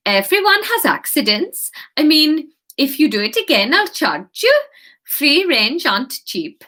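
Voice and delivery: a wobbly attempt at a Swedish accent; lightly put-on Swedish lilt, slightly high. Anya the head chef praising Kate, in a shaky Swedish accent. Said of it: "this fucking Swedish accent".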